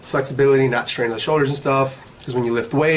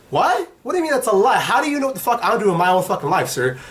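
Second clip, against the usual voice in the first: indignant comeback, pitched up; retold anger; 6 semitones higher than usual. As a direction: re-enact being offended, starting on a high "what?". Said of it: "Ain't no need to get mad".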